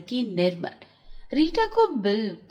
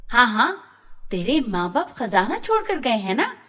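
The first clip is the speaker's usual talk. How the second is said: angry aunt. Acted. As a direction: scold the orphan girl with light sarcasm. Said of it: "चाची गुस्से से".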